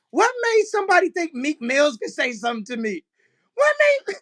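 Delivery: high, cracking voice breaking into laughter; fighting back tears of laughter; laughing to tears. Real, not acted. Host tells about a rapper, cracking up with laughter. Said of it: "I'm about to start crying, laughing".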